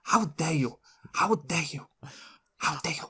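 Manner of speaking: mock Swedish accent, repeated catchphrase; Greta Thunberg. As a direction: try out an indignant Swedish accent. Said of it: "what's the famous thing".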